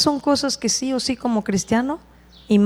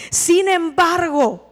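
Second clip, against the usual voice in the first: "sin embargo" slow and raised, hitting "sin"; weighty "sin embargo"; 6 semitones higher, slower than usual. Acted. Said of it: "con respeto le dice David". ("sin embargo" lento y enfático)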